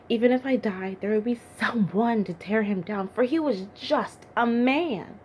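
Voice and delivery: rally yourself, driving the last words home; rousing defiance. Acted. David defying the giant he will face, rousing and emphatic.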